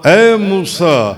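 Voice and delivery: slow drawn-out calling of Moses' name; divine call. Acted. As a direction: call out the name slowly from afar. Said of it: "اور پکارا گیا". (درخت سے آتی دھیمی پکار)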